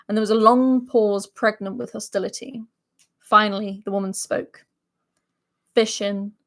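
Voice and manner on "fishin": deadpan. Acted. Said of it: "she deadpanned".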